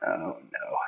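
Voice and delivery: low, very soft groaned aside; mock dread, sunk low and quiet; retold dismay. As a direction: say it low under your breath, dismayed. Retold dismay at getting homework.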